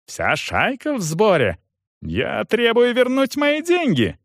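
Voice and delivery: high-pitched outraged demand; angry yelling. A narrator's reading. Young man demands money from soldier, furious. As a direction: climb into a shrieked demand. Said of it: "заорал Гирш".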